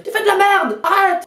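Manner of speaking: loud, high yell; imagined yell at neighbour. Retold or imitated. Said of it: "aller voir quelqu'un et dire".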